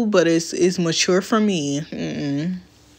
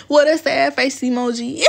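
mock crying whine; 5 semitones higher than usual. Shown as a demonstration. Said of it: "why did I say it like".

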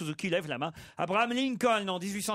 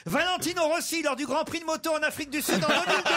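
laughing while telling; 10 semitones higher, faster than usual. Real, not acted. Suzuki answers, narrator laughing.

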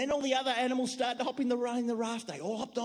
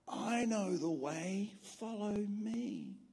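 little lamb voice; 2 semitones lower, 6 dB quieter, much slower than usual. Acted. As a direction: calmly offer the way. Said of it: "heard a little voice".

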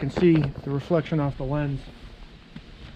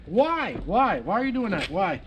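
exasperated pleading; 3 semitones higher than usual. Real, not acted. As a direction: whine each "why" at the misbehaving gadget. Complaining to beeping device.

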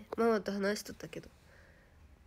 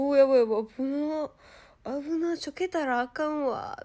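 louder, startled mutter of alarm; mock alarm; 5 semitones higher, 5 dB louder than usual. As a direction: catch yourself wobbling. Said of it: "とか言ってる". (転びかけて慌てる)

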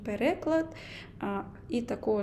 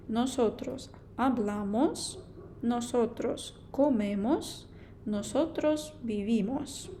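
careful model reading. Shown as a demonstration. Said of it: "Далі в нас множина «носотрос»".

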